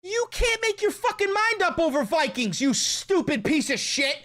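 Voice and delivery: high-pitched ranting outrage; exasperated insult. Real, not acted. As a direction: yell at the screen, indignant. Insulting man in clip.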